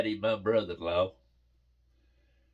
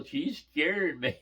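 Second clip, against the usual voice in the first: higher imitated kid wail; mock bawling; 5 semitones higher, slower than usual. The other girl complains she's frightened, mock bawling. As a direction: lightly imitate a bawling child. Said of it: "The other one's bawling".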